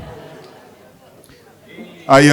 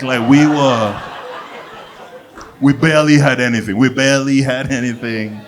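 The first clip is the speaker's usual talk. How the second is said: self-pitying complainer. Acted. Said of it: "try and convince you they grew up poor".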